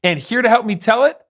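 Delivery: loud, high announcer call; announcer shout. Acted. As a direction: announce it to the crowd. Host announcing players loudly.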